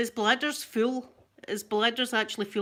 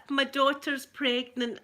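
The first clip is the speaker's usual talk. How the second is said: calmer repeat; 4 semitones higher than usual. Real, not acted. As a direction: say it again, settling down. Repeats big news, calmer.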